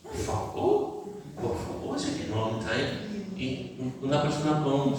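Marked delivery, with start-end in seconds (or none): 0.0-2.0 exasperated plea. Pretend. Exasperated plea about complainers.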